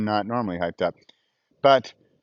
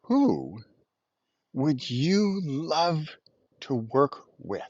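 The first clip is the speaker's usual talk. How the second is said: soft slowed quote; 2 semitones higher, 5 dB quieter, much slower than usual. Retold or imitated. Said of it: "He asks".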